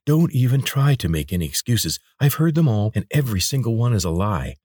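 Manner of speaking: a fierce guard refusing to hear lies; angry. Acted. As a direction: cut off his excuses in anger. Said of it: "Her face was dark with anger".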